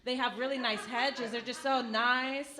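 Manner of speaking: put-on high, sweet old lady voice; chirpy grandma gossip, high pitched; grandmother voice. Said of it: "she's always like".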